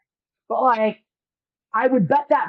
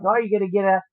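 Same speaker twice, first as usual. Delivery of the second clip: a light Chicago accent, retold; easy Chicago accent for a kid hearing it for the first time; faster than usual. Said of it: "I turned on the Chicago accent for her".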